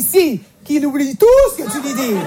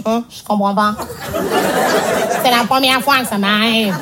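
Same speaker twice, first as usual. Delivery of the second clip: embarrassed excuse; 2 semitones lower than usual. Retold or imitated. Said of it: "sa première excuse, c'est toujours".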